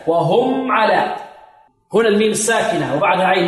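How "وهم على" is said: slow وهم على with the meem held briefly; clear held meem. Shown as a demonstration. Teacher giving an example to students, clear meem. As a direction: hold the closed m of وهم before على. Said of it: "مثل الميم الساكنة".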